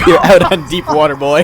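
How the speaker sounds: put-on Southern accent. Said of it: "picturing him saying that with, like, a heavy Southern accent".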